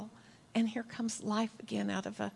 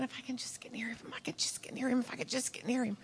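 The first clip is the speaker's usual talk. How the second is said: whispered, pleading under the breath; desperate whisper; 7 dB quieter, much faster than usual. Retold or imitated. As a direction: whisper it as a secret hope, over and over. Desperate woman thinking to herself.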